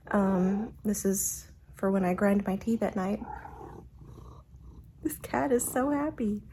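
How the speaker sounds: words slurred by mouth guard; wearing a mouthguard. Real, not acted. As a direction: talk with a guard over teeth. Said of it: "I have my mouth guard in".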